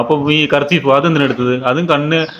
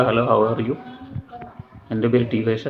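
softer, friendly hello to a new classmate; gentle modeled greeting; 3 semitones lower, 8 dB quieter, slower than usual. Shown as a demonstration. Parent models a greeting for the child's classmate, softly. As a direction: show the little one how to greet softly. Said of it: "എന്നൊക്കെ പറഞ്ഞിട്ട്".

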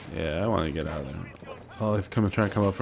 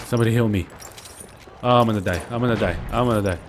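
panicked; 2 semitones higher, 6 dB louder, faster than usual. Real, not acted. Low health in game.

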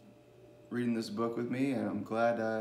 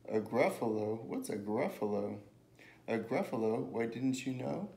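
animated picture-book storytelling; lilting story read, with lively character lines; reading to children. A narrator's reading. Reader telling children about a mouse and a Gruffalo, storytelling.

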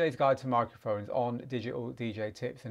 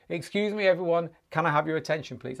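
calling for attention again; 2 semitones higher than usual. Shown as a demonstration. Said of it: "just say the same thing again".

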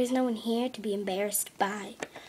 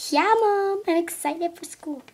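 fake cheer; 5 semitones higher than usual. As if I was excited.

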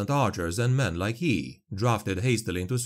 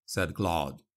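ordinary delivery

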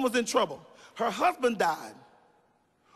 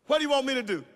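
a hushed prophet's question; Elijah asking gently; much faster than usual. Acted. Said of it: "And Elijah said unto her".

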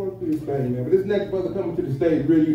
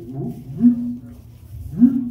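reverb echo; 5 dB louder, slower than usual. Shown as a demonstration. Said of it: "can I get some reverb".

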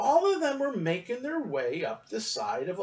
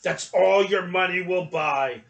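put-on louder gruff grumble, old shopkeeper voice; grumbled; 6 dB louder than usual. A narrator's reading. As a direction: grumble it, turning away from the boy. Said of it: "the man grumbled".

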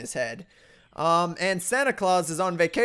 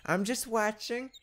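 slow, soft sinister mantis voice; hushed slow spooky watcher; creepy watcher; 3 dB quieter, slower than usual. Retold or imitated. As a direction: menace it out slowly and quietly. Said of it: "He's like".

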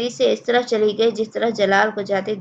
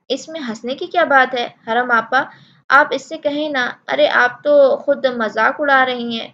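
higher, louder, hurt and put out; offended girl, a little higher and louder; offended protest; 3 semitones higher, 6 dB louder than usual. Acted. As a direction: protest like a sulking younger sister. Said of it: "وہ برا مان گئی تھی".

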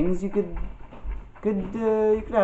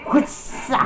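breathy whispered greeting, a bit higher; casual whisper; 9 semitones higher than usual. Retold or imitated. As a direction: whisper it slyly, like sneaking up. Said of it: "I'm gonna go".

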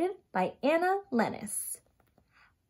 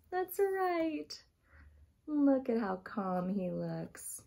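calm and soothing; 3 semitones lower, 4 dB quieter than usual. Acted. Calm breathing with children.

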